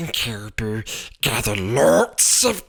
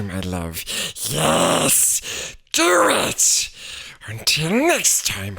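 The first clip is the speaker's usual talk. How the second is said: a light Gollum hiss-free creep of a voice. Acted. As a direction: coax them like Gollum. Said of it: "Gollum, Gollum".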